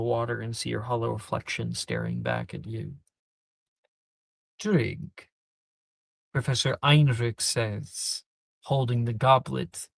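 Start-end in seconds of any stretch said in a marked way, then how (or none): 4.6-5.3 kind offer. Acted. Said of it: "in a surprisingly kind tone".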